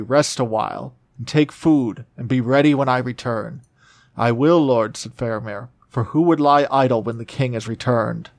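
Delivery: steady storybook reading of an epic; measured fantasy narration; story reading. Acted. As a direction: read the passage like an audiobook narrator. Reads Tolkien passage aloud.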